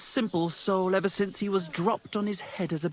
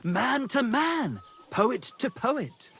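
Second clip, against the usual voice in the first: mock grandiose; 6 semitones higher, slower than usual. Toasting grandly over beer.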